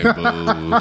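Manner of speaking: high mocking boo. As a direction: boo it like a heckler. Mocking the Naruto choice.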